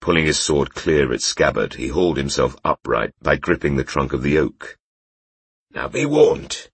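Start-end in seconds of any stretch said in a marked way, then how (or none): 5.7-6.7 put-on high, slurred drunken warning. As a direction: slur the words like a drunk. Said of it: "his voice slurred".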